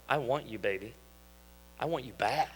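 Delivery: mock sultry. Movie lover voiced.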